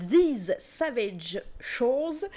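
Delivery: the title said slowly in a self-mocking English accent; English accent, proud and a little silly. Real, not acted. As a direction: put on an English accent for These Savage Shores. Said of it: "avec mon magnifique accent, euh, anglais".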